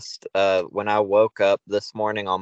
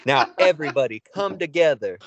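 wrestling promo; 4 semitones higher than usual. Retold or imitated. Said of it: "cutting a promo".

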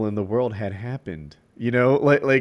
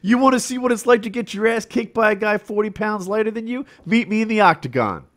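mock callout; 9 semitones higher than usual. The fighter calling out Brock Lesnar, high and hammed-up. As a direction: shout the callout like a showman. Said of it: "he's like".

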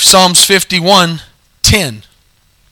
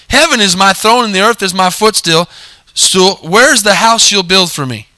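lightly sarcastic reading of God's words; a hint of mocking sarcasm, tossing it off; 4 semitones higher than usual. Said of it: "he says kind of sarcastically".

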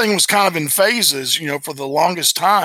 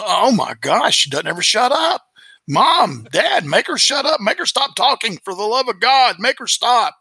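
put-on whiny kid; 6 semitones higher than usual. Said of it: "And I'm going".

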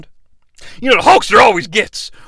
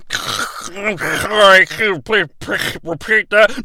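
slow, tinny speaker voice; drive-thru speaker asking Hulk to repeat; 2 semitones higher, slower than usual. Acted. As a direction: sound like a crackly intercom.

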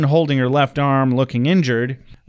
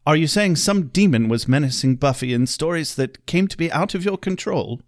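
lightly voiced stern British librarian; a hint of a fussy English scholar; Giles impression. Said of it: "I'll help you imagine Giles a little better".

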